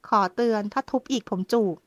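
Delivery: a touch of a hard warning tone; firm warning. Acted. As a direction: warn her, steady and firm. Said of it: "ปราดเสียงแข็งบ้างแล้ว".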